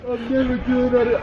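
talking with numb tongue; slurred from numb tongue. Real, not acted. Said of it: "my tongue is so numb".

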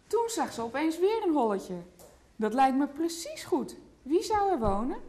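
put-on lively picture-book read to a toddler; reading to children. A narrator's reading. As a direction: tell the story gently to a small child. (voorlezen aan een kleuter)

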